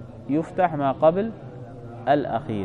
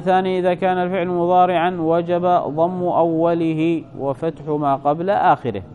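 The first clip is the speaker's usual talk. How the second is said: measured textbook recitation; reading aloud; 2 semitones higher than usual. Acted. Teacher reads the rule for present verbs, formal reading aloud. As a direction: read out the second rule in a formal, even voice.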